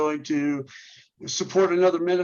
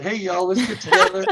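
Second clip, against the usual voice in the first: louder Southern "hey, y'all" invitation; Southern accent; 3 semitones higher, 6 dB louder than usual. Acted. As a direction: call out in a light Southern accent. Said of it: "I'm using the Southern accent".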